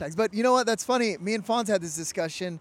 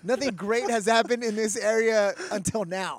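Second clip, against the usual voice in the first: reporter voice; 3 semitones higher than usual. Pretend. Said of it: "you sound like a reporter right now".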